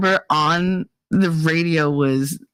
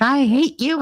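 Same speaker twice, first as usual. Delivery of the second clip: high, hammed-up hatred; mock anger; 9 semitones higher than usual. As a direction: imitate an exasperated ex. Retold angry ex on phone.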